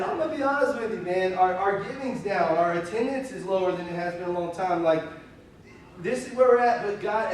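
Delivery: retold excitement. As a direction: pitch it like good news you can't hold in. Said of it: "I'm saying all this, like, with an excitement".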